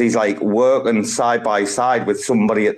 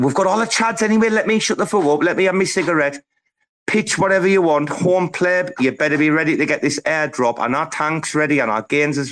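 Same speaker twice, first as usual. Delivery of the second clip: high, fast hype-man voice; pumped, rapid-fire shout-out; hyped up; 5 semitones higher than usual. Real, not acted. Hyped announcement to the room.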